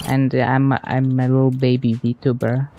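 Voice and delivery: mock cutesy baby VTuber, lightly done. Streamer joking at chat in a mild baby VTuber voice. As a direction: play up a tiny, innocent VTuber persona in jest. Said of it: "I'm just doing the VTuber voice".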